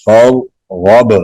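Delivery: "غب" with a bouncing final b; qalqalah on ba. Shown as a demonstration. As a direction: let the b in "غب" echo briefly. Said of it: "با پہ".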